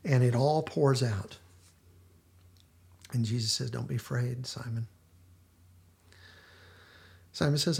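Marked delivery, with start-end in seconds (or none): 3.7-4.9 soft and tender, a touch quieter; gentle reassuring. Retold or imitated. Jesus voiced in retold scene.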